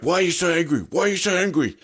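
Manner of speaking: high-pitched mocking interviewer voice. Retelling a livestream host grilling a guest, high mocking voice. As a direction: squeak out the question like a flustered host. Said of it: "He's like".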